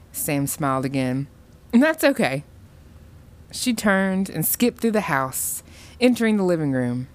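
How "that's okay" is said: put-on sugary girl. A narrator's reading. Smiling girl forgives mother.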